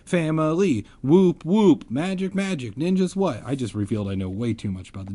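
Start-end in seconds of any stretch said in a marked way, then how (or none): 0.1-3.4 high-pitched whiny friend. A narrator's reading. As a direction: squeak it out in a high voice. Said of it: "Ben whispered in my ear".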